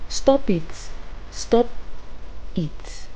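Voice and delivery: shaky, cracking frightened voice; lightly cracking, half-scared protest. Acted. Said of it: "her voice cracking".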